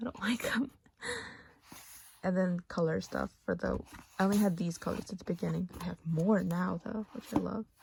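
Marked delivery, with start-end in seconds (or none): 0.0-0.7 exasperated, fed-up, over-it tone. Talking through old color swatches, dismissing some of them: exasperated.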